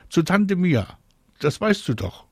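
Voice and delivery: high-pitched call down. A narrator's reading. Mama answers Marie from the balcony, calling out. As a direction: call the reminder down to your child. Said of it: "ruft ihre Mama".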